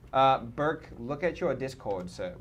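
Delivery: a light British accent on Burke and sir; mock British accent. Shown as a demonstration. Streamer asking Burke to check Discord, in a mock British accent. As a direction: call Burke in a playful put-on British accent. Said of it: "Why do I keep doing that?".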